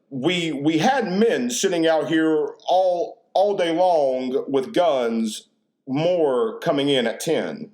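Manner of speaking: slow, formal on-the-scene reporter read; imitating a TV reporter slowly and stiffly; mock news reporter voice. Mocking how reporters talk on the news. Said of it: "reporter voice really gets on my nerves".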